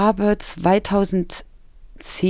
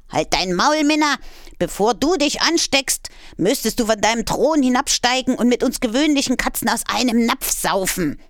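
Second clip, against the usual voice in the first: put-on grumbling old tomcat; 5 semitones higher than usual. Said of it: "der versiffte Kater maulte".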